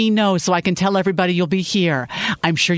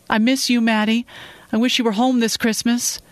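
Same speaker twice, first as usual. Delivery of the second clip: sincere; 6 semitones higher than usual. Acted. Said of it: "sounded more sincere than sad".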